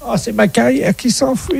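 high, wailing mock lament; hammed-up despair. Fake inspector wailing to the school principal, hammed-up despair. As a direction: overplay the doom like a tragic hero.

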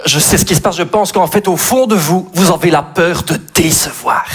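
badly faked Belgian therapist; accent belge raté. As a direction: lightly put on a clumsy Belgian accent. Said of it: "pas savoir faire l'accent belge". (psy à l'accent belge maladroit)

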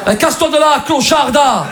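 high-pitched Marseille rebuff; hammed-up angry Marseille flirt; mock Marseille insult. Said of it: "Marseille, ascenseur émotionnel".

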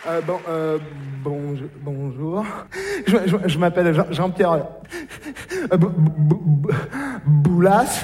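hésiter et bégayer sur chaque syllabe; un homme timide qui se présente en bafouillant; bégaiement timide. Acted. Jean-Pierre bégaie, intimidé. (bégaiement gêné)

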